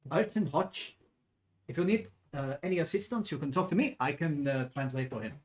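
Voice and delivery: put-on wobbly German accent drifting towards French; attempted German accent. Purser offers to translate, shaky German accent. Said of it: "trying to do a German accent".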